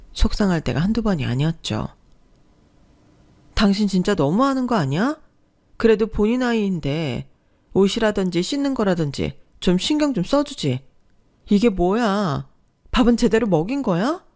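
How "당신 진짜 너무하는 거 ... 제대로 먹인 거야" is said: raised, reproachful scolding; scolding wife. Acted. Wife scolding husband about neglecting the child, raised and reproachful. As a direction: let the anger climb with each question.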